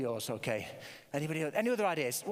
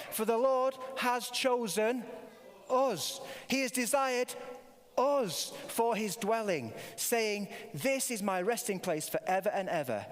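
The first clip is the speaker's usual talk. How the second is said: group reading; slower than usual. Acted. Leads congregation reading psalm.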